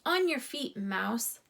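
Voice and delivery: bossy gopher. Acted. Gopher orders Ralph.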